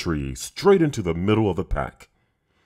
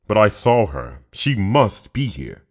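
frustrated roar; 3 semitones higher, 6 dB louder than usual. Acted. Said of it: "roared Shere Khan in frustration".

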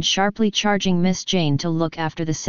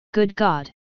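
desperate cry; 2 semitones higher than usual. A narrator's reading. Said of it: "in an outbreak of desolate desperation".

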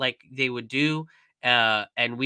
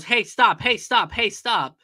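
louder, higher repeated order to stop; retold police command, pitched up and punched; imitated cop shout; 7 semitones higher, 5 dB louder than usual. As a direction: call out like a cop halting someone. Retelling a cop ordering man to stop.

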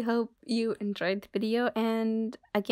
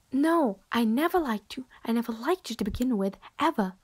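a fed-up friend pushing someone away, often hushed; cold rejecting friend. Acted. To the clingy admirer who won't leave, cold and irritated.

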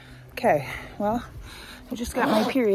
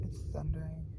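hushed whisper; soft, half asleep; 3 semitones lower, 11 dB quieter, faster than usual. Real, not acted. Whispered in storm, napping.

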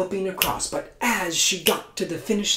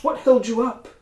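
emperor asks; 7 semitones higher, 3 dB louder than usual. Acted. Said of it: "the Jade Emperor asked".

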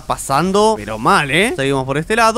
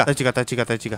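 hushed; 6 semitones lower, 7 dB quieter, much faster than usual. Real, not acted. Hiding from chica nearby.

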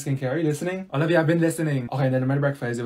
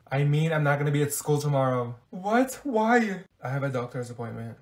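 ordinary delivery

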